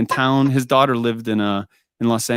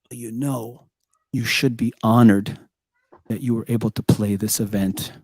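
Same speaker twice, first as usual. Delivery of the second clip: mock condescension; 2 semitones lower than usual. Retold organizer scolding the unpaid musician.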